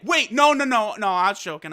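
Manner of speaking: mock pleading, quickly settling down; a touch of panicked backpedalling; Frieza begging. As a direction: imitate a hurried beg, lightly. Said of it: "get down on his hands and knees and beg".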